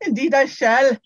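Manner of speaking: Indeed, I shall in a Scottish-tinged English accent; posh British take on Indeed, I shall. Shown as a demonstration. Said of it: "done it in an English accent".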